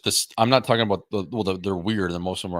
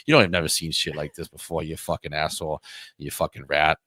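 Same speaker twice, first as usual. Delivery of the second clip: Boston tough guy. Retold or imitated. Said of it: "you should do an hour of Boston guy like that".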